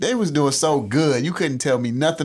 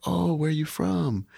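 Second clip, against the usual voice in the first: imitating the lady; 4 semitones higher, 4 dB quieter, slower than usual. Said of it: "the lady was like".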